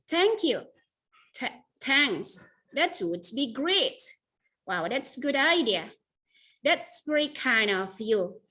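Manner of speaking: slow, gracious thanks; glad, grateful acceptance. Shown as a demonstration. Teacher modelling grateful acceptance for students. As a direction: savour each thank-you gratefully. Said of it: "lagi senang untuk menerima".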